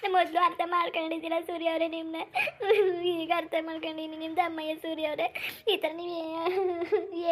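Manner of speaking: pleading through tears, voice catching; a wife in tears pleading with her husband; tearful pleading. Acted. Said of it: "ನೀವು ಮೊದಲು ಕಣ್ಣೀರು ಒರೆಸ್ಕೊಳ್ಳಿ".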